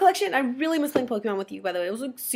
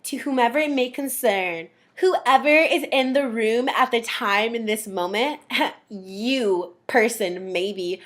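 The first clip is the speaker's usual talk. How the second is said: mock formal snub; 3 semitones lower, slower than usual. Brother avoiding her name.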